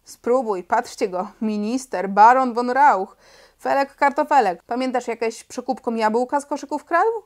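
loud, jeering taunt at Felek; jeering schoolboy heckle; mocking taunt. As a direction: sneer it, then raise the volume on baron von Rauch. Antek taunts Felek back.

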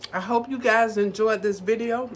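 talking with mouth full. Real, not acted. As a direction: speak through a mouthful of food. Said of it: "Sorry, my mouth is full".

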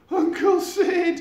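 slow, high, loud calling out; shouting a name. Acted. Eric shouting to his uncle in relief. Both shout each other's names.

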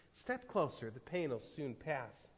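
soft, reassuring invitation; softly calming stranger; gentle reassurance. A narrator's reading. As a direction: coax them gently, easing the volume down. Stranger reassures frightened cave people.

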